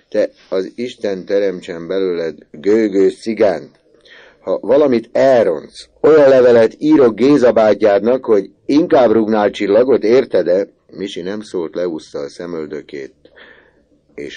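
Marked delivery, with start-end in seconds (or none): 0.1-10.7 loud, higher warning; stern threat. A narrator's reading. Uncle warning Misi, loud stern threat. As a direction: threaten the boy hard.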